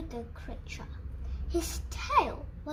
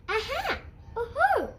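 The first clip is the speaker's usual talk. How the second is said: hooting owl; 5 semitones higher than usual. Acted. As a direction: call out like a delighted owl. Owl calling out at the snow tracks.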